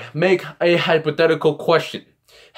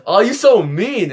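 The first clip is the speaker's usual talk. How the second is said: higher imitation of a playful complaint; mock reproach; 6 semitones higher than usual. Ex-girlfriend reacting to his shark joke, mock reproach. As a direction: imitate a girlfriend's teasing scolding.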